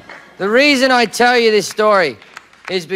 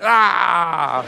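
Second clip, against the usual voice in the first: faked orgasm grunt; 4 semitones lower than usual. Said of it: "pulled out and went".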